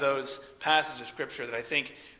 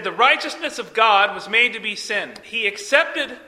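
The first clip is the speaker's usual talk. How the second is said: Kenneth Copeland; 5 semitones higher, 5 dB louder than usual. Retold or imitated. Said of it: "The false prophet by the name of Kenneth Copeland".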